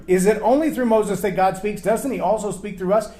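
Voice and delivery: whiny mock grumble; mocking whiners. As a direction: parrot their complaint with a sneer.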